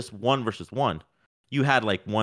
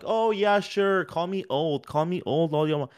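mock self-deprecating; 5 semitones higher than usual. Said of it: "Kinda, like, making fun of himself".

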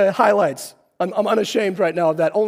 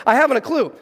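"I haven't a clue" pitched higher and louder, bewildered; flummoxed; 4 semitones higher, 3 dB louder than usual. Retold or imitated. Older man confused by the appraiser's questions, flummoxed. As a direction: let him sound thrown, his voice rising. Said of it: "he's starting to get a little flummoxed".

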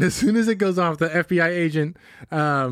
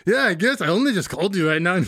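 lightly put-on Latino accent, pitched up at first; mock Latino accent. Ransom caller answering about being put on hold, mock Latino accent. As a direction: imitate a bad Latino accent. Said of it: "with a Latino accent like that".

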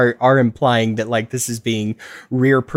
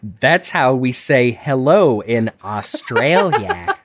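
laughing Australian mimic; slower than usual. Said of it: "Oh, boy".

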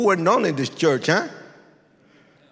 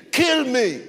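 imitated scream; 12 semitones higher, 6 dB louder than usual. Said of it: "this man started screaming at me".

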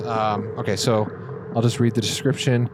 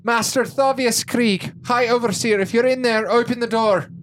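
calling out; 12 semitones higher than usual. Acted. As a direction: shout it at the door, commanding. Rhea calling through locked door.

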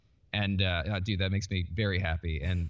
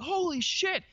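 Kevin Smith; slower than usual. Retold or imitated. Kevin Smith's amazed reaction retold.

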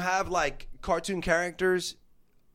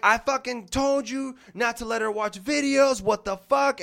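higher, imitating a scolding; angry wife; 5 semitones higher than usual. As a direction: tear into the mother-in-law. Wife tearing into her mom.

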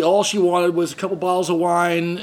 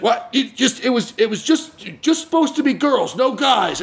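a higher stammering owner, flustered; stammering old man; 6 semitones higher than usual. Retold or imitated. Owner stammering to the tenant, a light flustered stammer. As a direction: fumble the words like a caught man. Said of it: "doing that kind of stammer".

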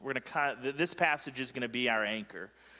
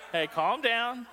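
much higher mock reproach; playful scolding; 9 semitones higher, 3 dB louder, slower than usual. Real, not acted. Preacher teasing a laughing class, playful scolding. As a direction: shush the room in fun.

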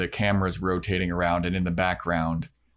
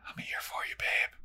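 whispered, much softer lover line; mock whisper; 10 dB quieter than usual. Angel at the prom to Buffy, mock seductive whisper. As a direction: breathe it like a hammed-up romantic. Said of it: "Angel is like".

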